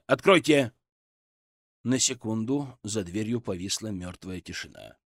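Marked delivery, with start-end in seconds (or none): 0.0-0.7 stern command. A narrator's reading. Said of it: "строго сказал я".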